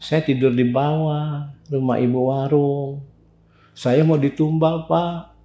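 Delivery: soft, slow, meek account; subdued confession. Retold or imitated. Young man telling the neighbourhood head of his ordeal, subdued. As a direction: confess it quietly to the elder, dragging a little.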